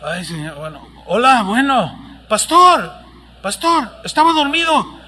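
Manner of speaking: voz adormilada que se despierta; pastor medio dormido. Retold or imitated. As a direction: contestar el teléfono entre dormido. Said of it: "entre dormido". (pastor despertado de madrugada al teléfono)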